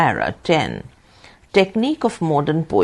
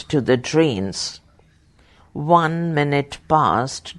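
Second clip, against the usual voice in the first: slow, lingering verse reading; poem reading; 2 semitones lower than usual. Acted. Dictating a quoted poem, slow lingering reading. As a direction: draw out the lines like a lament. Reads Keats lines during dictation.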